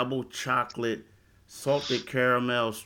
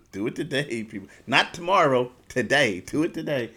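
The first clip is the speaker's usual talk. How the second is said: catchphrase shout. Acted. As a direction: hammer the catchphrase home. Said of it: "They like the saying".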